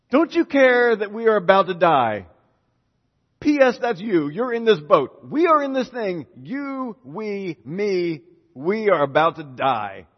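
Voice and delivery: high, loud, desperate cries to a sleeping man; panicked shout. Retold or imitated. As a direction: yell it like the boat is sinking. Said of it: "panic in their voices".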